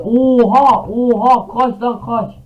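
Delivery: loud frantic high shout; panicked yelling. Real, not acted. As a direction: yell in panic to run. Mobs attack, panicked yelling.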